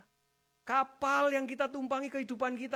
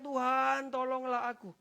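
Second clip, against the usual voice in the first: drawn-out retold cry for help; raised, pleading call to the Lord; 3 semitones higher, 6 dB louder than usual. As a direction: call out as Peter going under. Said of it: "lalu berteriak".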